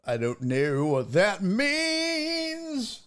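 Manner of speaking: slow, drawn-out puzzled line; slow bewildered repeat. Shown as a demonstration. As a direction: stretch it out in mock confusion.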